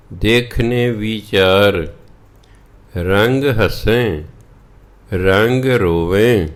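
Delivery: slow, measured chant of the verse; scripture recitation. Acted. A preacher recites the verse to the congregation, slow and reverent. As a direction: draw each phrase out reverently.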